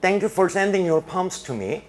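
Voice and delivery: slow, deliberate example-sentence read; slow, high classroom reading of the English; slow reading aloud. Shown as a demonstration. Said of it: "예문 보세요".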